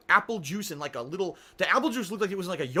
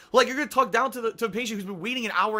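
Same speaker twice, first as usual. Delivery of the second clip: louder, quicker, laughing through it; laughing rant; 4 semitones higher, 5 dB louder, faster than usual. Real, not acted. Ranting at viewers about the nurse, laughing. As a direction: rant fast while still laughing.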